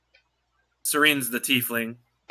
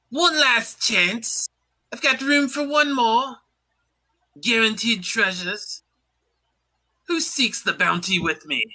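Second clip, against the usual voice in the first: slow, higher booming pitch to the room; captain's call; 8 semitones higher than usual. Acted. Captain calling for one last crew member, booming. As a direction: hawk the voyage like a showman captain.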